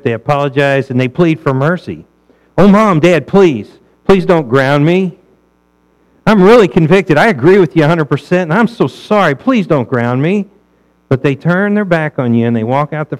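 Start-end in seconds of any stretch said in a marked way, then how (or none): 2.6-10.5 slightly louder, mock begging child; pleading child. Preacher voicing a child begging his parents, mock pleading. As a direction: beg like a kid afraid of being grounded.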